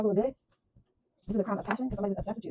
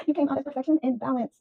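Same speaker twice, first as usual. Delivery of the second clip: laughing; 6 semitones higher than usual. Real, not acted. Reader gloating at attackers.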